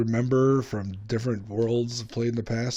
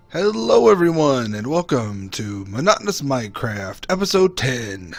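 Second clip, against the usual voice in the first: YouTube intro. Acted. Clip montage of episode intros.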